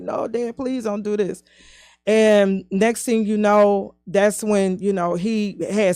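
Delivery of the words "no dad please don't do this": quiet pleading. Retold or imitated. Child pleading with father.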